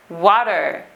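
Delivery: water with middle T weakened, final R curled; West Country pronunciation. Shown as a demonstration. Teacher repeating it for learners, West Country pronunciation. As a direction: let go of the T in water, sound the R. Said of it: "normally becomes what we call a glottal".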